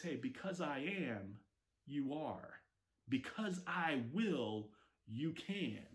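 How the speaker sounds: soft, slow and reassuring; quiet reassurance. Acted. God quietly reassuring the doubting listener, soft and slow. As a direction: reassure them gently.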